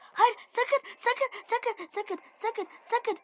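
slow, high, stretched pleading; pleading cry. Real, not acted. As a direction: beg it out, drawing each word. Pleading in game.

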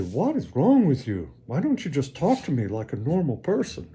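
a touch of a puzzled, exasperated dad; bewildered father. Acted. Father asks his child to talk normally, lightly exasperated. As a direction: ask it like a baffled parent. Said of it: "You say".

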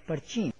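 "parchi" with r before ch and a nasal final i; nasalized ending. Shown as a demonstration. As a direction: let the last vowel of "parchi" ring through the nose. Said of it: "is read like".

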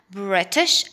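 "بريتش" with a clear T; British, T sounded. Shown as a demonstration. Teacher showing British option one, clear-T pronunciation. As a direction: say "بريتش" as "Bri-tish", crisp T. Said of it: "إما بتنطقها تي".

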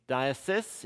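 ending said as "sis" in diocese; singular pronunciation. Shown as a demonstration. Teacher correcting what the spelling suggests, singular pronunciation. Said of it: "this is pronounced diocese".

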